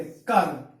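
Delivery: कर for घर with the vowel drawn out; long-vowelled कर, no aspiration; lengthened Dogri ghar. Shown as a demonstration. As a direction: say घर as कर, held a little long. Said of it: "थोड़ा लंबा करके".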